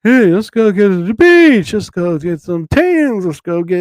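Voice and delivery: mock happy commercial; cheery commercial voice. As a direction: sell the beach like a summer ad. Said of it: "it was all happy stuff".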